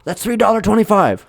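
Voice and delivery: high nervous price quote; mock shopkeeper. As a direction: answer timidly to the man. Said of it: "shopkeeper answers".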